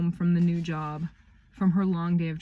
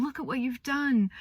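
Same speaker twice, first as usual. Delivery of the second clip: proud praise; 8 semitones higher than usual. Retold or imitated. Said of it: "she's so proud of him".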